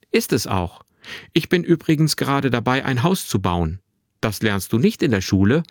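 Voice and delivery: lightly voiced boy, cheerfully chatty; a hint of a lively twelve-year-old; lively young boy. Narrator voices the boy Finn.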